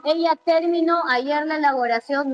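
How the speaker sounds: "terminó" said as TÉR-mi-no, first syllable stressed; stress moved to TÉR. Shown as a demonstration. Teacher shows a senseless version, saying TÉR-mi-no. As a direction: throw the weight onto the first syllable of "terminó". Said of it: "Menos si digo".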